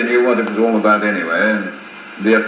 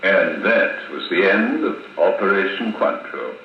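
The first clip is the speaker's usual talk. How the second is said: slow, softened storyteller's ending; closing narration; 5 dB quieter than usual. A narrator's reading. Narrator closing his tale to the listeners, slow soft sign-off. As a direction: draw the final words out softly, with measured pauses.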